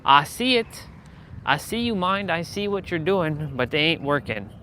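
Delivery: high, teasing gotcha tone; calling out his own mind. Retold or imitated. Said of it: "And I'm like".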